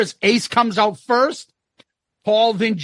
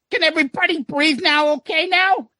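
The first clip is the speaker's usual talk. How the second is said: Ace voice; 8 semitones higher than usual. Retold or imitated. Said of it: "Ace comes out and says".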